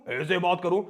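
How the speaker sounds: lightly altered demo voice; change the voice, as if someone else talks; put-on voice. Shown as a demonstration. Teacher showing any voice travels equally fast, put-on voice.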